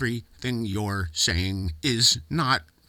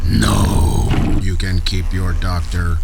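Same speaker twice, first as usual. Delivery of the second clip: loud distorted robot meltdown; short-circuit, blurting jumbled lines; glitching robot; 10 dB louder than usual. Acted. Robot melting down.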